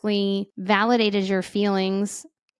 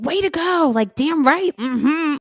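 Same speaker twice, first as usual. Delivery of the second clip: mock cheering; 6 semitones higher than usual. Coach mocking praise for a snap at kids, high and sarcastic. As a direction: cheer it on like a hype fan, tongue in cheek.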